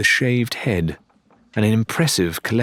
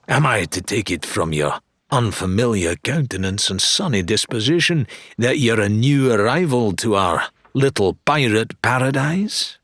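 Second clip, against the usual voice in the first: showman dealer; 2 semitones higher than usual. Acted. Wilbur greeting Lorena, a new arrival, with showman flair. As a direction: flatter the newcomer grandly.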